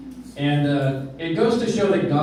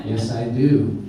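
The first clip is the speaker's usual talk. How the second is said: laughing; 5 semitones lower, slower than usual. Real, not acted. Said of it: "you're a freaking comedian".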